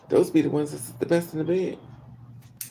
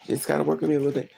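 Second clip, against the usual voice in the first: quicker repeat; much faster than usual. Retold or imitated. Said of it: "repeated faster".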